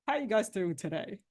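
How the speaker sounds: soft, deflated, no energy; low-energy greeting. Shown as a demonstration. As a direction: greet them like you'd rather not be here. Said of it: "Same words".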